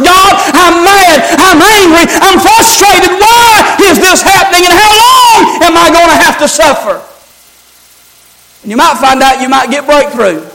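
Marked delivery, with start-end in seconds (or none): 0.0-7.0 brutally honest prayer. Shown as a demonstration. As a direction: let the frustration break out, near a shout on why. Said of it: "brutally honest".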